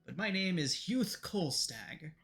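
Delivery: lightly voiced grand introduction; self-important noble. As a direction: introduce yourself with a touch of pomp, lingering on the name. Self-important character introduces himself.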